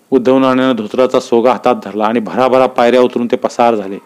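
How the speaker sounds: ordinary delivery, nothing marked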